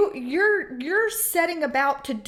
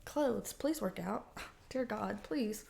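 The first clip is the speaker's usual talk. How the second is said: muttered plea; 4 semitones lower, 12 dB quieter, slower than usual. Real, not acted. Pleading quietly mid-reading.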